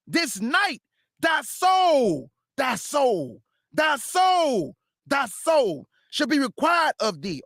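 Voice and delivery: slow, booming repeats of thy soul; thundering voice of God. Acted. God pronouncing judgement on the rich fool, booming slow.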